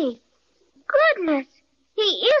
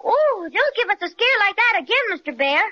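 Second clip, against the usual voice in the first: pretend fright; 4 semitones higher than usual. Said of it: "let's pretend we're really afraid".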